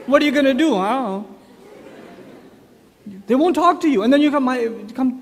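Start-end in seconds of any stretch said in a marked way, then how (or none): 0.0-0.8 higher acted question; prying father. Father questions his silent teenage son, lightly voiced prying. 0.8-1.2 a hint of a sullen teen; acted non-committal brush-off; uncommunicative teenager. Teenage son answers his dad's questions, mildly uncommunicative.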